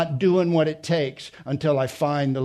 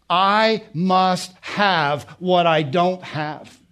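desperate plea; 3 semitones higher, slower than usual. Acted. Preacher voices Hannah's desperate plea.

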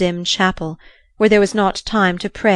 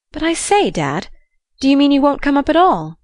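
bewildered son; 7 semitones higher than usual. Acted. Son bewildered by father's refusal.

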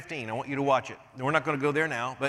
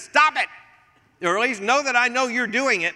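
stop it; 10 semitones higher, 8 dB louder than usual. Retold or imitated. Jesus voiced rebuking grumblers.

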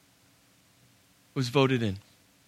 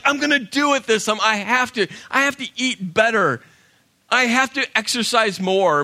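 serious resolve; 5 semitones higher than usual. Retold or imitated. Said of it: "I was serious this time".

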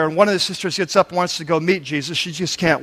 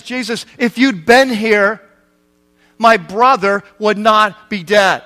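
slow, weighted words; retold grieving reproach; 4 dB louder, slower than usual. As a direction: draw out each word of the sister's reproach. Grieving sister confronts Jesus, retold.

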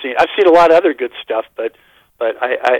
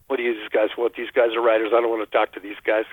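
low, softer suspicious aside; retold suspicion; 3 semitones lower, 5 dB quieter, faster than usual. Player eyeing two men with press passes, mildly suspicious. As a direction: imitate a player quietly wary of visitors. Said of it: "immediate suspicion".

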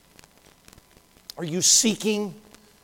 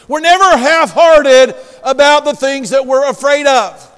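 louder, higher pulpit exhortation; forceful preaching; 7 semitones higher, 10 dB louder than usual. Acted. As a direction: preach it with emphatic punches.

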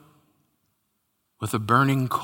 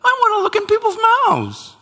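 higher, louder, fast pleading; mock whining; 10 semitones higher, 4 dB louder than usual. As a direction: beg God with a hammed-up whine. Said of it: "And I said".

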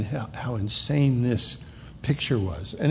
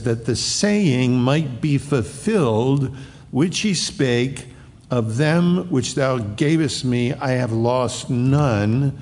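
slow, measured reading of the verse; scripture reading; slower than usual. Acted. Preacher reading the verse aloud to the congregation, slow and solemn. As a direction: lay each word of the text out deliberately.

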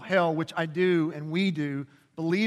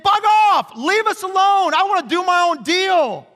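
defiant shout; 12 semitones higher, 7 dB louder than usual. Retold or imitated. Humanity telling God off.

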